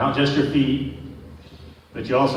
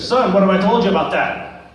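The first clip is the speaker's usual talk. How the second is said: louder scolding dad, a bit higher; 4 semitones higher, 4 dB louder than usual. Retold or imitated. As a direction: storm in and scold the boy, hammed up.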